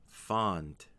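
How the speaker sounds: FOND with the vowel held extra long. Shown as a demonstration. Teacher showing learners how to pronounce it, long vowel in "fond". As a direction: stretch the vowel in "fond" before a clear nd. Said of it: "make the vowel extra long".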